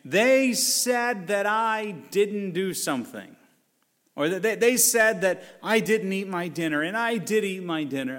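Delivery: put-on hams up a sobbing kid tattling; whiny crying kid. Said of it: "one of them crying, saying".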